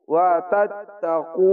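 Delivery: slow ওয়া তাত্তাকু, doubled ত and কু drawn out; recited slowly. Shown as a demonstration. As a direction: double the ত, stretch কু. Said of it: "এক আলিফ টেনে পড়বেন". (ধীরে তাত্তাকু)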